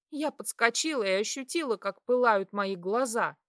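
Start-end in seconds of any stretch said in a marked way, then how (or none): none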